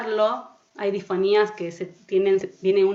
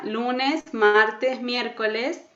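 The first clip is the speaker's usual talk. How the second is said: projected through a mask; 3 semitones higher, much slower than usual. Shown as a demonstration. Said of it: "parece que llega de una manera diferente".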